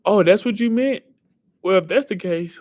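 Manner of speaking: high, loud sudden understanding; oh, so that's what you meant; surprised realisation. Real, not acted. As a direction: catch on all at once.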